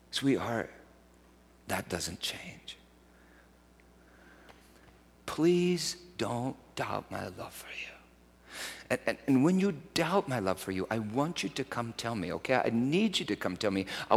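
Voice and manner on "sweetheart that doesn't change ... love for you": slow, whispered plea; tender whisper. Retold or imitated. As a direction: whisper it gently to the child. Father comforting daughter softly.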